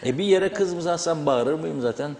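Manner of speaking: soft, low, unhurried voice; calm and quiet. Shown as a demonstration. Commentator explaining his shouting to host, calm and quiet. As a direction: drop right down to gentle explaining. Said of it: "Usul usul burada anlatırdım".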